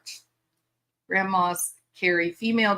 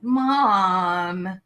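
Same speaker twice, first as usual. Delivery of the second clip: higher, slow mock daughter; daughter's voice; 5 semitones higher, much slower than usual. Daughter telling her mom to calm down, mock voice, higher and slow. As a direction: play the daughter scolding lightly. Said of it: "My daughter's like".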